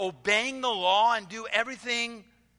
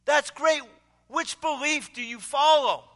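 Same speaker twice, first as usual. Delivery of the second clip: booming, much higher and louder hearty greeting; burly pastor; 6 semitones higher, 5 dB louder than usual. Retold or imitated. Burly pastor greeting the student at the door, booming and hearty. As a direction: boom it out like a jolly big pastor. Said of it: "he says to the young student".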